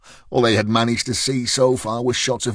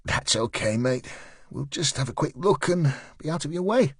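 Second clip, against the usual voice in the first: placating; 4 semitones higher than usual. Acted. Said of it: "Tag continued with his placating tone".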